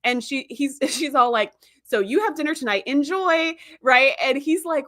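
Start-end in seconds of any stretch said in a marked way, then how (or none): 1.8-3.5 higher, airy mock send-off; breezy brush-off. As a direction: imitate a wife cheerfully leaving him to it. Retold wife brushing husband off.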